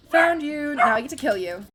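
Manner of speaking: loud, high menacing glee; gleeful villain voice. Acted. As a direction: taunt the victim with relish. Voicing Huntress.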